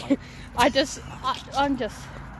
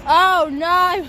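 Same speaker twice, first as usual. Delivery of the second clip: mock alarm; 5 semitones higher, 7 dB louder than usual. Blue lights coming at me.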